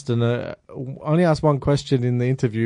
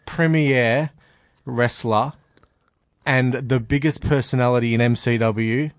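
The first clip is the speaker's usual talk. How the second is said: hyped ring announcer intro; slower than usual. Acted. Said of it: "Now that's a good introduction".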